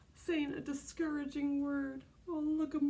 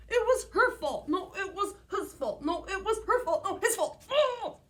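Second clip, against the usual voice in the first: put-on higher, louder squabbling kids with laughter; hammed-up sibling fight, half laughing; kids' squabble; 6 semitones higher, 4 dB louder than usual. Acted sibling quarrel heated.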